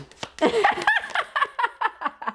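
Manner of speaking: a high, shrieking burst of laughter; a real shriek of laughter. Real, not acted. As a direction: crack up and shriek with it. Laughing fit continues.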